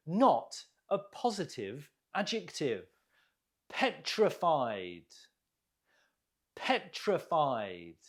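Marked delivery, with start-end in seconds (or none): 3.7-5.1 Petrified, slowly, with PET stressed; stress on first syllable. Shown as a demonstration. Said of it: "Note the stress on the first syllable". 6.5-8.0 Petrified, slowly, with PET stressed; stress on first syllable. Shown as a demonstration. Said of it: "Note the stress on the first syllable".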